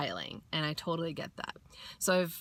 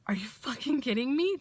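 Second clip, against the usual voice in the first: whispered, high-pitched disbelief; stunned whisper; 5 semitones higher than usual. Retold or imitated. Hearing the trick is this easy, whispered disbelief. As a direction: hush it like you can't believe it.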